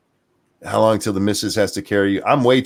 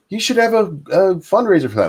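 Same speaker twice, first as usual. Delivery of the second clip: imitating a friend; 11 semitones higher, 3 dB louder than usual. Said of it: "Scribey keeps going".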